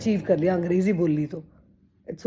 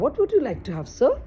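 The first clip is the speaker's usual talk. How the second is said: slow careful English; 4 semitones higher, much slower than usual. Retold or imitated. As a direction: spell it out slowly like a learner. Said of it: "वो इतनी जल्दी-जल्दी बोलते हैं".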